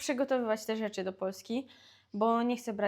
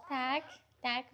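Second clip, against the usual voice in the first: ordinary talk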